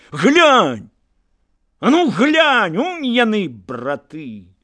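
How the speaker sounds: high, loud cry to look; urgent command. A narrator's reading. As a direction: force him to look. Forcing his brother to look.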